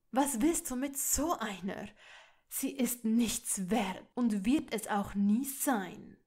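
loud, disdainful sneer; contemptuous. Acted. Father sneers at his son's girlfriend, loud contempt. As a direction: belittle her with open scorn. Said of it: "sagte er abwertend".

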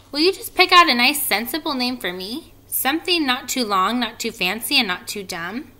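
high, brisk little spider; lightly voiced fussy spider; small spider voice. Third spider asks for name.

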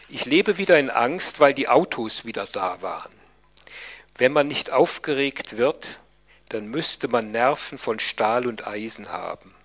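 measured, emphatic letter reading; formal documentary read-aloud. A narrator's reading. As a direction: read the letter out deliberately, phrase by phrase. Reads out a letter.

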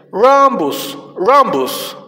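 "Rhombus" as a firm model word; English pronunciation demo. Shown as a demonstration. Teacher showing children the English for rombo, clear "Rhombus". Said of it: "Cómo se pronuncia y cómo se escribe".

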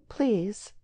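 sweetly feminine asking. A narrator's reading. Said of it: "sweetly feminine in her manner of asking".

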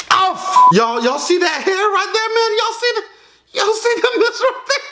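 horrified at what just came off; real pained shock. Real, not acted. Hair ripping out with mask.

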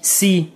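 سي said as French "sé"; French syllable. Shown as a demonstration. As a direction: sound out سي the French way. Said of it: "أولا مثلًا سي".

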